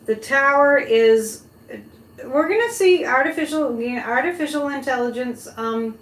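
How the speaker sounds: fortune teller. Real, not acted. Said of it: "I'm just gonna give you my psychic impression".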